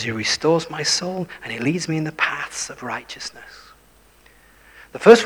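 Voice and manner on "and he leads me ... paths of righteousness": whisper. Acted. Whispered scripture line.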